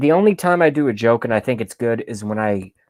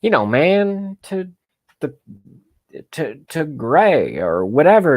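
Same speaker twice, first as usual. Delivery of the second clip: Biden impression; 3 semitones higher than usual. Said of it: "Was that at my Biden parody?".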